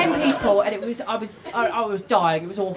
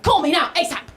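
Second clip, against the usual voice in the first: higher, slightly urgent mum voice; mock block-capitals text; 5 semitones higher than usual. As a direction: read it out like an all-caps demand. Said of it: "texts me all the time in block capitals".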